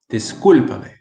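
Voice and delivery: discúlpame with every sound clear, CÚL stressed; teacher's careful discúlpame, the S fully sounded; slow, enunciated. Shown as a demonstration. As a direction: say discúlpame crisply, syllable by syllable. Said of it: "I'm talking slow and more enunciated".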